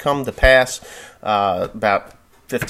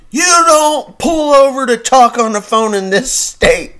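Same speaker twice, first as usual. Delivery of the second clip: high, loud, slow furious lecture; yelling cop; 14 semitones higher, 8 dB louder, slower than usual. Retold or imitated. Ohio cop yelling at the driver, furious shout. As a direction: hammer every word like an enraged cop. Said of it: "yelling mad at me".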